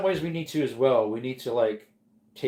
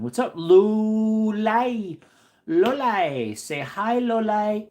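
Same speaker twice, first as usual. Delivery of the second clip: excited greeting; 9 semitones higher, 7 dB louder, much slower than usual. Real, not acted. Greets and calls the pet.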